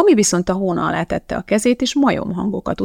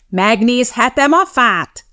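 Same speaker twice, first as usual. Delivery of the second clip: slow, higher, loud reprimand; thundering correction; 5 semitones higher, 5 dB louder, slower than usual. A narrator's reading. Teacher corrects Madeline's request, thundering. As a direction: stretch out the corrected question crossly. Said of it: "dörrent rá Mrs. Mudford".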